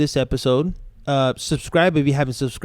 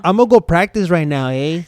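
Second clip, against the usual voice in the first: put-on Chicano accent; 4 dB louder than usual. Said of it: "just be like".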